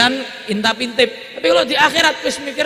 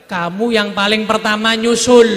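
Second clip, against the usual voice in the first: louder, firm announcement; emphatic telling; 6 dB louder than usual. Acted. Prophet telling his daughter she follows first, emphatic. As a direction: tell her plainly and strongly.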